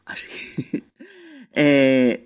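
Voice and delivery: normal talking voice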